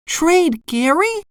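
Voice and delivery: high, slow, shocked cartoon voice; SpongeBob exclaiming. A narrator's reading. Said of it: "SpongeBob exclaimed".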